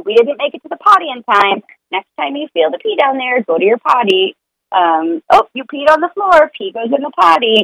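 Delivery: just state the facts, no fuss; a parent calmly telling the child about an accident; matter-of-fact. Retold or imitated. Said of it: "just matter-of-factly stating it".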